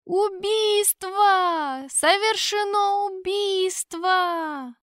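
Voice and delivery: drawn-out high cry of murder; long panicked wail; alarmed cry. Acted. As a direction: yell it out from across the field. Guard's alarmed cry from afar.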